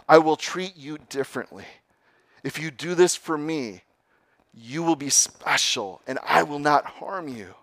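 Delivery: coaxing snake. Acted. Snake coaxing the wary youth, persuasive. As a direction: soothe him into trusting you.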